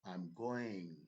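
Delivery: GOING drawn out, "I'm" reduced; stress on going. Shown as a demonstration. Teacher repeating the main-verb example, stress on "going". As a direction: stretch "going" after a small, quick "I'm". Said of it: "am to chhota sa reh gaya".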